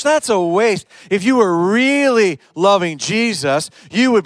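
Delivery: dismissive critic, lightly voiced; scornful religious critic. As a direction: sneer at the worship as hype. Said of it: "They'll look at that and say".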